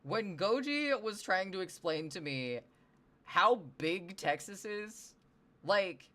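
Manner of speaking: high, loud, drawn-out disbelief; real incredulous rant. Real, not acted. Streamer marvelling at how big Texas is, incredulous. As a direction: stretch the words in loud exasperated amazement.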